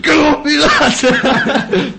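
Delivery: high, loud retold yelp; mock shout, pitched right up; mimicked protest. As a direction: imitate a lad yelling to be let go. Mimics lad protesting in anecdote.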